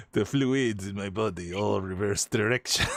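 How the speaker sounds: mock French narrator accent. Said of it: "oh, the French one".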